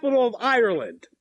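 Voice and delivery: quick, run-together question; talking fast. Real, not acted. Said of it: "You're talking too fast again".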